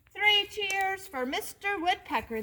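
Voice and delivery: high, rousing cheer; cheering cry. Acted. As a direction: cheer him on together. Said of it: "they cried".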